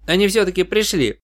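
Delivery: overjoyed the help has come; excited. A narrator's reading. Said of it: "вскочил Тирс".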